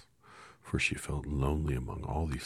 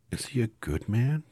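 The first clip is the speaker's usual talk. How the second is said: put-on high, louder little girl; anxious girl voice; 9 semitones higher, 6 dB louder than usual. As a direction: ask it as a worried child. Dorothy asks anxiously.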